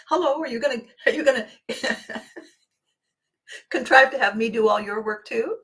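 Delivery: high, laughing mock greeting; laughing mock question. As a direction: tease through laughter.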